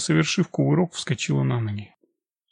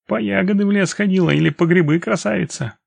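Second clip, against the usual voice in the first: higher, raised hailing voice; calling out; 6 semitones higher, 4 dB louder than usual. A narrator's reading. Young man hails a woman passing with her basket, calling out. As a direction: hail a passer-by, pitched up and louder. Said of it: "меня окликнул парнишка".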